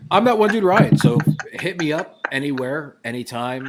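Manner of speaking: loud, upbeat self-intro; excited intro. Real, not acted. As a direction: announce yourself with energy. Corrects himself with a big intro.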